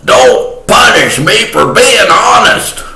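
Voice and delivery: high, pleading whine; hammed-up high plea for mercy; mock begging. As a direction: beg for mercy in a comic high voice. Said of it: "I was begging her".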